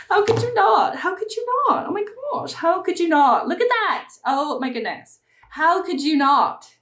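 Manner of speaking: high-pitched squeals of delight over a palette; excited squealing. Real, not acted. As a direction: squeal it out, thrilled and shrill-high. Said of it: "I'm not yelling".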